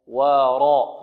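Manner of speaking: ورا with a thick ra; heavy ra. Shown as a demonstration. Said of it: "والراء هنا مفخمة". (راء مفخمة في ورا)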